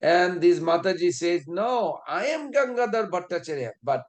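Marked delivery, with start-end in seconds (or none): 1.5-3.7 higher, put-on ladylike voice from an old man; old man's mock feminine falsetto claim; old man faking lady's voice. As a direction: mimic an old man badly faking a woman. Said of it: "the way it tried to pretend like a lady's voice".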